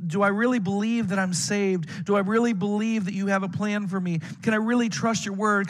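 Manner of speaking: acting out a doubter's urgent questioning; struggling, wrestling prayer. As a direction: press each question to God, wrestling with doubt. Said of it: "I was struggling, wrestling".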